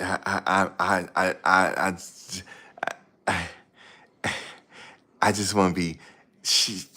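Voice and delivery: stuttering, halting boxer voice; lightly mimicking a punch-drunk champ; imitating Meldrick Taylor. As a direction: stammer through each "I" like a dazed fighter. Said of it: "You ever seen Meldrick Taylor talk".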